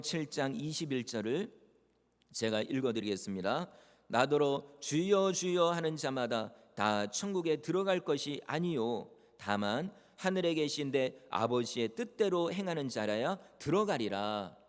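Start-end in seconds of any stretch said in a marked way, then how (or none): 4.1-14.6 measured, solemn Bible recitation; scripture reading. Acted. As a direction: read the verse out formally, drawing out opening and close. Reads scripture aloud to congregation. (성경 구절을 엄숙하게 낭독하는 말투)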